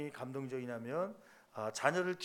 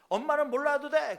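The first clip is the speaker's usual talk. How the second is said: high, loud mock teen shout; retold teenager's angry outburst; child yelling back; 9 semitones higher, 9 dB louder than usual. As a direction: imitate a sulky kid shouting at mom. Child yells at scolding mother.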